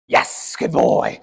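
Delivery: slow, whispered praise for the dog; calmly reward him without exciting him; hushed praise. Real, not acted. Quietly praising dog on place.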